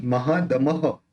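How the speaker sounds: महादमह ending in a breathy echo "ह" after the visarga; महादमह with the visarga voiced as a short echo. Shown as a demonstration. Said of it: "ये विसर्ग का अप्रोनाउंस होगा".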